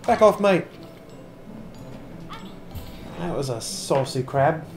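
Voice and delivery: badly faked British accent, chatty gamer commentary; amateur attempt at sounding vaguely British; mock British accent. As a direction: put on a dodgy, hard-to-place British accent. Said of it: "I know the accent's terrible".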